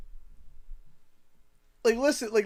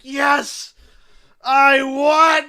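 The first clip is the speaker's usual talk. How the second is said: imitating a boy's cheer, louder; kid's excited cheer; 4 semitones higher, 7 dB louder, much slower than usual. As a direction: shout the win like a proud kid. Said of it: "And he's just like".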